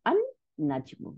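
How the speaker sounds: আন নাজমু with a long N and no L; assimilated lam. Shown as a demonstration. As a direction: join আন onto নাজমু through a doubled N. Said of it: "নুনের সাথে যোগ হয়ে গেল".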